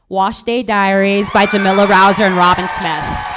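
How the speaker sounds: calling out the winner with a loud lift; excited announcement. Real, not acted. Host announcing the award winner to the crowd, excited shout. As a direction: announce the winner like a big reveal.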